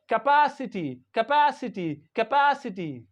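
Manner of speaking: Capacity as "kuh-PASS-i-tee", PA stressed; careful pronunciation. Shown as a demonstration. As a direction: teach Capacity with a clear PASS. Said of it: "how do we pronounce this word?".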